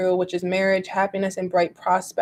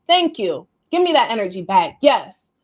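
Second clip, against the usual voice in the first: excited cheer; 5 dB louder than usual. Real, not acted. Cheering the horoscope's advice.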